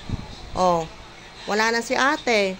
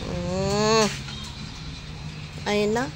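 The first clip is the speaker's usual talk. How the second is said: higher, sing-song coaxing voice throughout; 5 semitones higher than usual. Real, not acted. Caregiver cooing at elderly Sweetie, higher sing-song baby talk.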